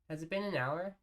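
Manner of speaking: surprised. Real, not acted. Surprised at the clock time.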